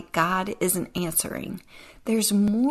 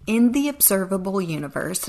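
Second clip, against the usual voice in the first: "observable" lifted and held a little louder; stress on observable; 3 dB louder than usual. Shown as a demonstration. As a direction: lean on "observable". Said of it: "I emphasize the word observable".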